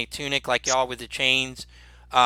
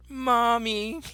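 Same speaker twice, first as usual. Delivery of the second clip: high-pitched, soft, whining whimper; 10 semitones higher, 4 dB quieter than usual. Voicing the other guard as the door is shut: whimpering. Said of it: "you can hear him kinda whimpering".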